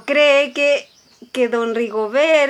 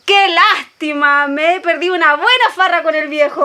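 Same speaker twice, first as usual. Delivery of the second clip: quoting the daughter; 3 semitones higher than usual. Retold or imitated. Maid quotes the daughter to the worried mother, mock regret. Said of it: "Y agregó".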